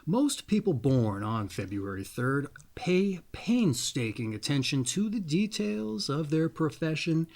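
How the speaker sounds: measured, deliberate reading of a birthday profile; reading a horoscope. Acted. Host to viewers, reading their birthday reading aloud in a measured voice. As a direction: read it out like an astrology entry, unhurried.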